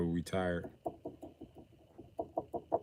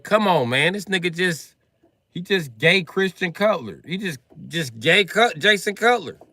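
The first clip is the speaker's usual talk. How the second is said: exasperated rant; 13 semitones higher, 14 dB louder than usual. Retold or imitated. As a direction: yell about the bad quarterback. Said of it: "I was like".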